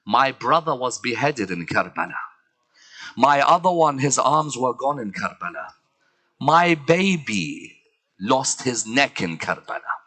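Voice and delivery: low, falling lament; understated, solemn mourning; subdued grief. Acted. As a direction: list the losses gravely. Zainab lists her losses in Karbala.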